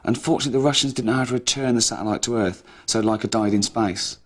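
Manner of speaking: a lightly solemn, slightly loud report; mock documentary read. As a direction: read it like a serious TV piece.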